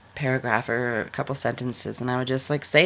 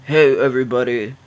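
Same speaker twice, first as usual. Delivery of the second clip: mock guy voice; 7 dB louder than usual. Shown as a demonstration. Joking with close friends, a hammed-up guy voice. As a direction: play a burly guy saying hi to the room. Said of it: "me trying to do a guy voice".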